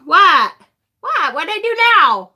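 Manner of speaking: mock Brad. Host playing Brad, who was blamed for the card, in a high whiny protest. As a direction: play the boyfriend protesting he did nothing.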